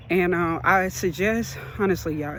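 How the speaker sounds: breathless talking; out of breath. Real, not acted. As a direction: speak short of breath. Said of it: "I'm kinda out of breath".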